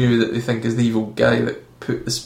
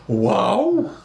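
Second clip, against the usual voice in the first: high, laughing mock "wow"; hammed-up gasp of wonder; fake amazement; 7 semitones higher than usual. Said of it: "just be like".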